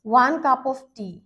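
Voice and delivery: one cup of tea said very slowly, word by word; slow dictation. Shown as a demonstration. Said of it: "এখন যদি আমরা দেখি যে".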